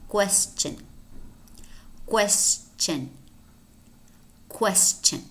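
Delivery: "question" as KWES-chun, clearly separated; careful correct pronunciation. Shown as a demonstration. Teacher modelling a mispronounced word, "question" with clear CH. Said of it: "most Spanish speakers, uh, mispronounce".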